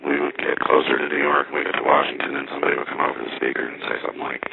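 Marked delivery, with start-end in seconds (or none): none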